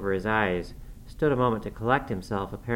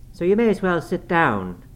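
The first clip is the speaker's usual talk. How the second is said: high, loud challenge; defiant dismissal; 8 semitones higher, 6 dB louder than usual. A narrator's reading. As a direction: put him in his place, pitched up. Girl defies her furious father-in-law.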